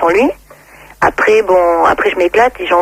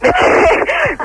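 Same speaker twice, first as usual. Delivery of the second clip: laughing. Real, not acted. Laughs at host's crude joke.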